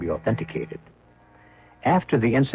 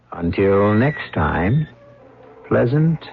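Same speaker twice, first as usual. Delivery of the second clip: slow, drawn out, rising to louder and higher on dreams; ominous sign-off; 3 semitones higher, 4 dB louder, much slower than usual. Acted. Host bids the listeners goodnight, slow ominous sign-off. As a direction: linger over it like a sly threat.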